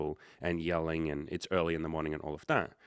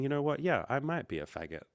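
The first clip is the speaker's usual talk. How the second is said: a touch of mock calm, gently imitated; peaceful calm voice; 7 semitones higher than usual. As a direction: say it lightly, like nothing bothers you. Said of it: "in a very peaceful, calm voice".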